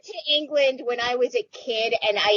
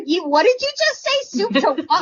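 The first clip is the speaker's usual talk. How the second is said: higher-pitched baffled retort; what on earth are you on about; retold disbelief; 6 semitones higher than usual. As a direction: re-enact your baffled reaction. Retelling disbelief at sister's odd phrase.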